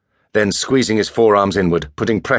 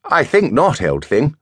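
Perry's voice; 8 semitones higher than usual. A narrator's reading. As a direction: lift into a lazy, teasing toff. Perry refusing.

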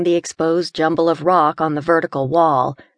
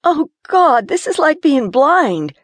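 higher, louder frightened voice; shaky fear; 10 semitones higher, 4 dB louder than usual. Acted. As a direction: gasp it out in the sudden dark. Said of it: "Gina's voice was shaky".

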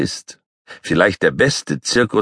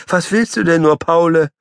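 voiced much higher, gently asking; puzzled high question; high patient woman; 11 semitones higher than usual. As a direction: ask a pestering pet kindly. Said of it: "Die Petersilie fragt".

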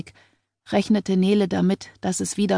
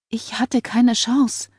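pleading assurance; 5 semitones higher, slower than usual. A narrator's reading. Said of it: "beteuerte sie".

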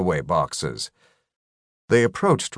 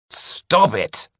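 scolding; 3 semitones higher than usual. A narrator's reading. Chester scolding the screaming tiny Rykub. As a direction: shut him down like a naughty child. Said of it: "Chester scolded him".

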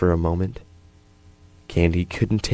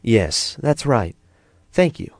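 approving; 5 semitones higher, slower than usual. A narrator's reading. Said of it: "Sandy nodded approvingly".

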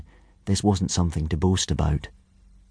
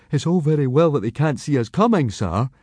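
high-voiced objecting boy; Fishlegs; 6 semitones higher than usual. A narrator's reading. Skinny boy questioning his teacher's plan, high and reasoning. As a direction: raise a logical objection in a higher voice. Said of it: "he pointed out, logically".

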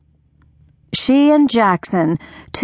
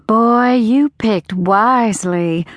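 Mama's voice; 3 semitones higher, slower than usual. A narrator's reading. Mama voiced in narration.

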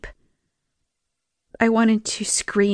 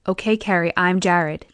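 reassuring. Acted. EMT introducing himself to frightened patient, reassuring. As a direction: gently settle the patient. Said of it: "in a reassuring tone".

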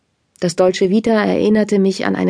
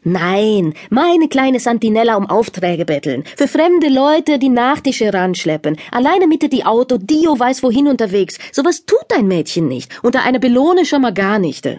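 indignant father; 3 semitones higher than usual. Acted. Father refuses, worked up.

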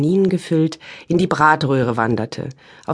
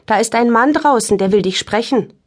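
high little voice; 5 semitones higher than usual. Acted. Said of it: "mit hohem Stimmchen".

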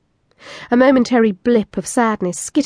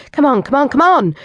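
higher, louder impatient urging; insistent raised commands; barking; 5 semitones higher, 3 dB louder than usual. Acted. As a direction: bark it at him, hungry and impatient. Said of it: "I was practically barking".

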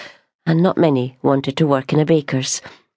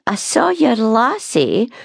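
put-on gossiping old woman; 7 semitones higher, slower than usual. Gossiping customer.

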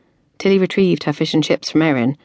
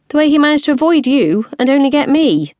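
indignant; 10 semitones higher, 4 dB louder than usual. Acted. Indignant explanation.

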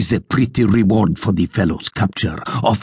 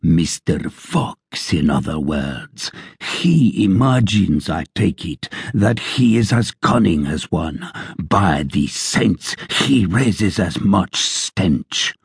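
scornful sergeant. Acted.

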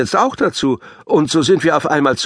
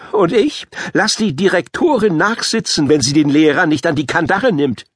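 mild growl; 4 semitones higher than usual. Acted. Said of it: "knurrte Paavo".

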